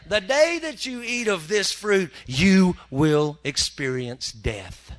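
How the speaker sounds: slow, weighty voice of God; a hint of solemn divine warning. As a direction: pronounce it like a decree. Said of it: "he said".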